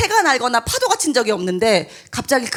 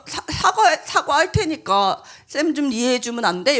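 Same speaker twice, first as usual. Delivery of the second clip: laughing apology. Retold or imitated. Teacher apologizes, laughing awkwardly.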